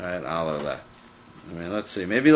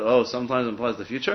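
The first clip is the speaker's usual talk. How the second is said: rising question, oh stretched; teacher feigning disbelief at opposites; mock surprise. Shown as a demonstration. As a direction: act puzzled at the contradiction. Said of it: "they're opposites".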